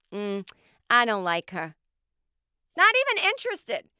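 put-on drawn-out, sing-song Boston lady's accent. Retelling a stranger's reply in an airport, imitating a Boston lady. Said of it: "this Boston lady in an airport".

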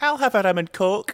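put-on shrill, booming Scottish accent, very high, very loud. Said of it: "in her Scottish accent".

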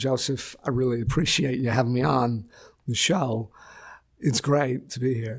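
calm, easy, even-keeled, settled-in chatting tone. Showing how a double would sound, calmly talking on a show: calm Christopher Walken impression. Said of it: "how he would be if he was just calmly sitting there".

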